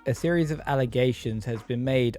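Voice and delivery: flat, robotic statement reading. Shown as a demonstration. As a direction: read it like a robot, no feeling. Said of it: "I even sounded like a robot actually talking about it".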